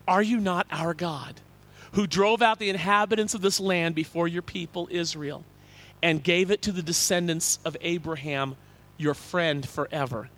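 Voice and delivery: reading an ancient king's prayer, solemnly; solemn scripture prayer. Acted. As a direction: pray it with weight and reverence. Reading Jehoshaphat's prayer aloud.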